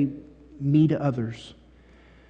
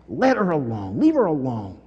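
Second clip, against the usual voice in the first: gentle quote. Shown as a demonstration. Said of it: "I like that".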